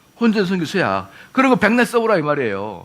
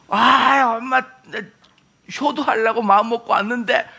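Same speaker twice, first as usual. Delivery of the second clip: acted protest to mom, pitched up; defiant child; 3 semitones higher than usual. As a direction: whine back at mom, hurt and indignant. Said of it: "엄마한테 또 대항을 하잖아요". (엄마에게 대드는 아이처럼 높은 목소리로)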